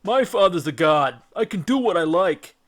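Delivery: a loud, booming giant boast; giant's boast. Acted. Cyclops boasting to the captive Greeks, loud and booming. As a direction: brag about his father the god.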